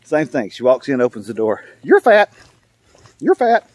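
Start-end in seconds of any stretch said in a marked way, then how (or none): 1.8-3.7 high, punchy talking parrot. Acted. Parrot insulting the lady at the door, high squawky voice. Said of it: "maybe the parrot will say".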